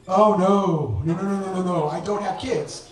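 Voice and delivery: rapid panicky no no no; flustered denial. Retold or imitated. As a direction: deny it in a rush.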